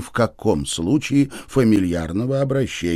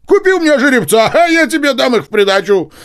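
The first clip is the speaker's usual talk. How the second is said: much higher, louder and fast; eager sales pitch; 7 dB louder, faster than usual. Acted. Nozdryov pushes his stallion on Chichikov, eager. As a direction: rush the offer eagerly.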